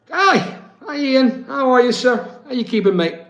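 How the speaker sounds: light up to welcome him; excited greeting. Real, not acted.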